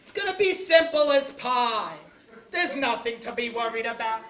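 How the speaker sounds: calm her down gently; reassuring. Acted. Husband reassures his crying wife.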